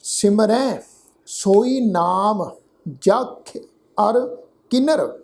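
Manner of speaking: slow reading, word by word with pauses; scripture recitation. Shown as a demonstration. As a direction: recite each word separately and draw it out. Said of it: "ਇਸ ਤੋਂ ਅੱਗੇ ਪਾਠ ਹੈ".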